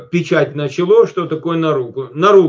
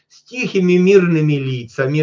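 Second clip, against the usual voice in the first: mock peaceful faces. Shown as a demonstration. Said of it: "попробуйте поставьте здесь".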